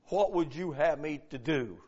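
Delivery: soft, low, yielded question; submissive. Acted. Paul yields to Jesus on the road, submissive. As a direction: drop the voice and give in humbly. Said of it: "This is a submissive statement".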